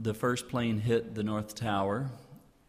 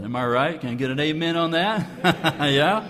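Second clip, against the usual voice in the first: higher, louder, rousing call and laugh; call for amen; 5 semitones higher, 8 dB louder than usual. Real, not acted. To the audience, fired-up call for an amen. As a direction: work the crowd for an amen.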